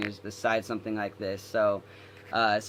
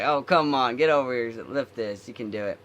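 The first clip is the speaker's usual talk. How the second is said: coaxing; 5 dB louder than usual. Retold or imitated. Senior urging him, retold.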